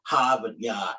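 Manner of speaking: low, quick Boston "Harvard Yard"; mock Boston "Hahvad Yahd"; Boston accent. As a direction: imitate a Bostonian dropping the r's. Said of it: "y'all got that Harvard".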